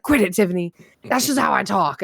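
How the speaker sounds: lightly imitated hillbilly mom; mock-annoyed mom slipping into hillbilly; mom's hillbilly accent. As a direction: protest with a hillbilly twang. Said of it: "my mom will slip out of it".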